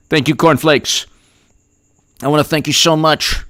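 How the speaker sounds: lightly voiced rambling politician; mock stump-speech delivery; Biden. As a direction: parody a meandering convention speech. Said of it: "I'll give you his speech".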